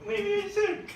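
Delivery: very high, slow and syrupy; high, slow mock-sweet yes; high sarcastic agreement. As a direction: drag it out in a fake sweet high voice. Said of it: "And you're like".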